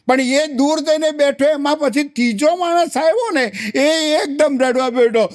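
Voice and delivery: ramp up as if bursting into tears; mock wailing build.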